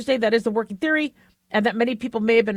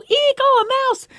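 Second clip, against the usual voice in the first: much higher, mock-squealing "Eek"; cartoon lady shriek; 4 dB louder than usual. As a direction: ham up a startled cartoon woman. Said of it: "you'd see these women go".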